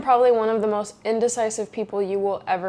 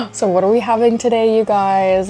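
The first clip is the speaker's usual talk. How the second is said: mildly hammed-up breakfast excitement; excited; 4 dB louder than usual. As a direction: ask the group eagerly, a little louder. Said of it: "I get excited for breakfast".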